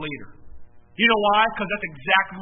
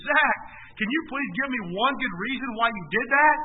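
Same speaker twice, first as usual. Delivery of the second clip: raised, mildly exasperated dad voice; retold exasperation; 2 semitones higher than usual. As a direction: imitate a father demanding an explanation from his son. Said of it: "I gasped in exasperation".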